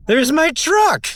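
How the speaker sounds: high, loud and slow shout; shouting it down the mountain; excited call. Real, not acted. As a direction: point it out with glee. Spots his truck from summit.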